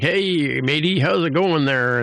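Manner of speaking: a hint of a hearty pirate; pirate talk. Mariner trying to pass as pirate, lightly acted pirate voice. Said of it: "Just talk like a par-, pirate".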